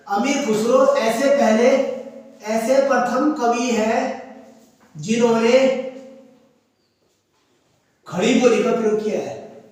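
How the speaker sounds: slow dictation with long gaps; feed the sentence out in short chunks. Shown as a demonstration. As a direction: dictate slowly for note-takers. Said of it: "वहीं पर लिखो star करके".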